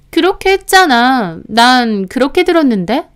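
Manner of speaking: mildly snide, taunting comeback; needling. Acted. Sister-in-law needling the narrator in a quarrel, mildly snide. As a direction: needle her with a smug retort. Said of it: "하면서 앞에서 깐죽거리는 겁니다".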